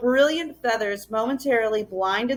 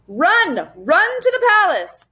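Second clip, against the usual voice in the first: much higher urgent yell; 9 semitones higher, 4 dB louder, slower than usual. A narrator's reading. The professor yelling to the children to flee. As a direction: shout them to safety. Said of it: "He yelled to the children".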